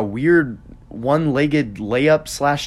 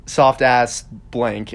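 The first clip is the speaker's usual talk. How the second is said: slow scornful taunt; 3 dB louder, much slower than usual. Retold or imitated. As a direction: drag out the insult, slow and scornful. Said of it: "he says".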